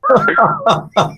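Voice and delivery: a sudden, very high squeal of laughter; real laugh. Real, not acted. Host laughing at the bus driver story, real laugh. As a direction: burst out laughing at the punchline.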